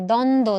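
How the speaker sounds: দ্বন্দ্ব as "dondo", with no b; sounded out. Shown as a demonstration. Teacher showing which sounds are heard, sounded out. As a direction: drop the b from দ্বন্দ্ব. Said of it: "দ আর দ উচ্চারণ হচ্ছে".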